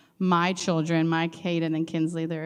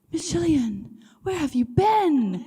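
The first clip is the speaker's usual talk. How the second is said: put-on high little kid asking sweetly; child voice; 11 semitones higher, 4 dB louder than usual. Teacher imitating her small student, high child voice. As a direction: imitate a small boy missing his teacher.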